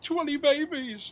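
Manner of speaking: loud, slow, high cry; high laughing shout. Retold or imitated. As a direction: bellow it through laughter. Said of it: "cuts back in with".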